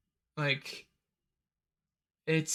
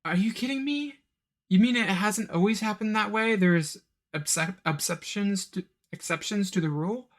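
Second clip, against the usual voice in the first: higher, mock-outraged disbelief; incredulous disbelief; 5 semitones higher than usual. Reviewer reacting to the movie, high incredulous mock outrage. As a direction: play up the incredulity. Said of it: "and I'm like".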